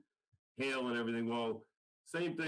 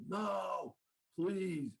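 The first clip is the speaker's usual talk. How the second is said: higher pleading cry; imitating the stranger's frightened higher plea; begging; 7 semitones higher than usual. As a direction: cry out for him not to call. Stranger begs him not to call.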